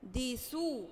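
"مهندسو" broken up, with han held; syllable by syllable. Shown as a demonstration. Teacher gives sukun example, "مهندسو" split into syllables. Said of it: "لازم حرف يشده معاه".

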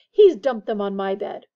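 loud, put-upon complaint; long-suffering. A narrator's reading. Percy complains about his brother Ron, long-suffering. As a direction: complain like a martyr. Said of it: "in a long-suffering voice".

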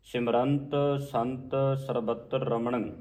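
slow, measured verse; scripture recitation. Acted. Teacher recites the verse slowly for students. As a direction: recite it with care.

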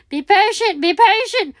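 excited self-reminder; urgent self-coaching. Real, not acted. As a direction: urge yourself on. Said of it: "urgent self-coaching, louder".

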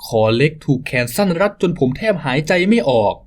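normal talking voice

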